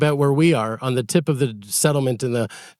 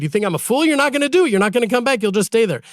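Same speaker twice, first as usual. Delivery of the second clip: mocking king; 7 semitones higher, faster than usual. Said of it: "The king said".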